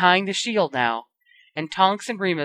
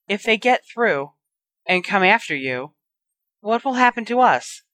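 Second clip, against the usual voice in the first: frightened; 4 semitones higher than usual. Acted. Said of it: "Aunt Petunia gulped".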